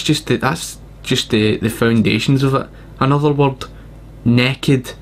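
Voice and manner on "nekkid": put-on "naked" pronounced nekkid, short e and a clipped kid ending. Shown as a demonstration. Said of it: "N E K K I D".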